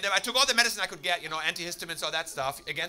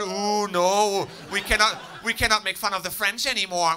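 mocking the sensitive; 3 semitones higher, 5 dB louder, slower than usual. Mocking oversensitive people.

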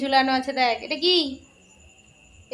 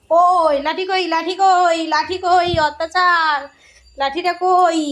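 raised, louder scolding voice; scolding call; 4 semitones higher, 5 dB louder than usual. Real, not acted. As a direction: call out for the stick, high and loud. Threatening the curtain-tearing dog with stick. (চড়া গলায় বকুনি)

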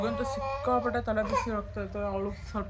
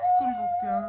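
much higher, playful ಸ್ಕೂಲ್ಗೆ ಹೋಗ್ತೀಯಾ?; teasing question; 4 dB louder than usual. Real, not acted. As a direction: toss ಸ್ಕೂಲ್ಗೆ up high as a playful tease. Mother teasing child about school.

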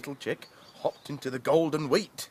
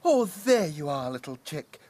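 clucking hen. Acted. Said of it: "clucked Mother Hen".

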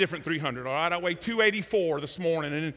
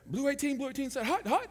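count explained; 6 semitones higher than usual. Shown as a demonstration. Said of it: "So you go on two".

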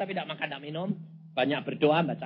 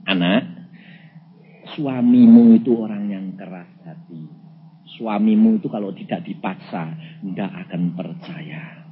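voice of God; 8 semitones lower, 5 dB louder than usual. Retold or imitated. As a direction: speak as God counselling a child, deep and measured. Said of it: "Tuhan berkata begini".

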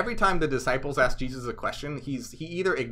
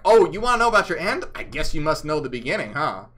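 sarcastic Jesus; 2 semitones higher, 7 dB louder than usual. Retold or imitated. Jesus mocking people's inane questions, sarcastic. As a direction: needle them with fake surprise. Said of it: "I really like the sarcasm".

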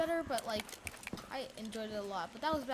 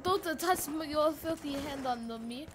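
light mock Russian accent, slowed down; a hint of a Russian accent, slow; slower than usual. Gamer mimicking Nikolai's line, light mock Russian accent. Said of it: "I could do a Russian accent all day".

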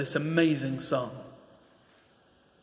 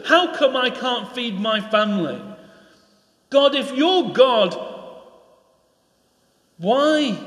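anguished cry to God; 4 semitones higher than usual. Acted. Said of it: "a people that were calling out".

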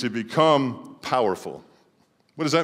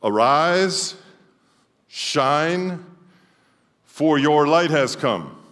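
proclaimed; 4 semitones higher, 3 dB louder, much slower than usual. Acted. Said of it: "It goes like this".

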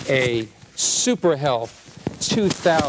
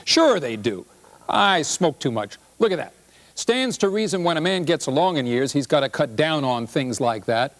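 grumbling husband; 3 semitones higher than usual. Acted. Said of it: "He says".

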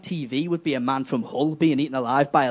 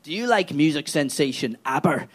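lower, deadpan tree voice; talking tree; 4 semitones lower than usual. Retold or imitated. The tree answers Theresa May in a low deadpan. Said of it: "And the tree went".

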